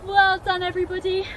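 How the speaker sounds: breathless after dancing; panting praise after the dance; out of breath. Real, not acted. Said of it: "I'm quite out of breath".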